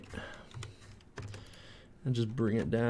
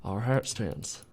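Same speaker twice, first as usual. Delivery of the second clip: lightly voiced presidential speech; a hint of a statesman rallying the nation, accent slipping; Barack Obama. Modeller rallying Canadians over geometry, light presidential impression. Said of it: "Why is my Barack Obama Canadian Southern?".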